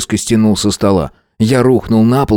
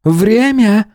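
much higher call from outside; 13 semitones higher than usual. A narrator's reading. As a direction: call it back from the doorway. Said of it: "крикнув оттуда".

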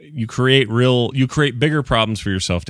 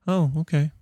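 higher-pitched, disapproving in-law voice; politely disapprove, pitched up; judgmental mother-in-law; 5 semitones higher than usual. Acted. Mother-in-law judging what the granddaughter reads, primly disapproving.

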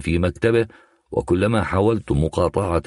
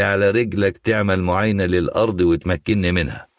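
raised-pitch, acted outrage; indignant demand; 5 semitones higher than usual. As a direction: push back hard, refusing to be put off. Angry visitor refuses to wait.

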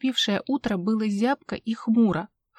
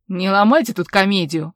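louder, contemptuous dismissal; scornful snort; 7 dB louder than usual. A narrator's reading. Dag scoffing at the suspect, scornful. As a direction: brush off her act with scorn. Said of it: "фыркнул Даг".

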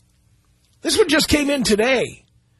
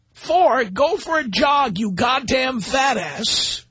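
mock reading; 2 semitones higher, slower than usual. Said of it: "He says".

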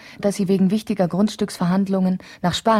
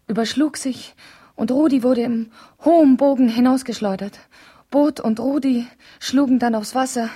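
horrified retelling; 6 semitones higher than usual. Acted. Describing the crash.

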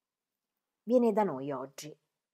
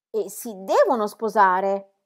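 slow and weighted on devono; slow, heavy statement; 9 dB louder, slower than usual. A narrator's reading. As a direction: let "devono" sink slowly, resigned. Elizabeth weighs the news.

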